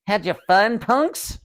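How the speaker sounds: high, sneering rasp rising on punks; evil dummy taunting the startled boys. Acted. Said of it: "Slappy rasped".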